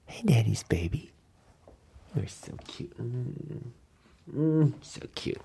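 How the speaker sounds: soft whisper to the pet. Real, not acted. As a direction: whisper sweetly to the dog. Whispering to the dog.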